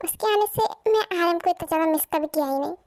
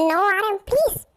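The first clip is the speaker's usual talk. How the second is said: rising plea; 3 dB louder than usual. Acted. Wife pleading with husband.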